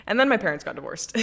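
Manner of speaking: repeating the bad news with an incredulous laugh; laughing emphatic repeat. Real, not acted.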